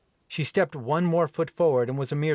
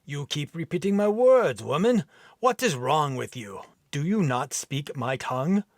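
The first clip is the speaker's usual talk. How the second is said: mild irritated Viking; 3 semitones higher than usual. Acted. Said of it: "rough, deep brogue accent".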